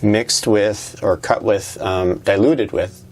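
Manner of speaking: talking around a paintbrush held in teeth; paintbrush in mouth. Real, not acted. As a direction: say it with a brush clamped in your mouth. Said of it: "I'm talking with a paintbrush in my mouth".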